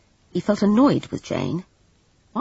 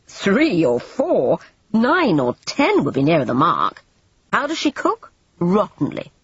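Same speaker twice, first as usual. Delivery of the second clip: louder, impatient Everard; exasperated scolding; 4 semitones higher, 3 dB louder than usual. Acted. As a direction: hammer the point home, fed up. Scolding Jane about drunk maid.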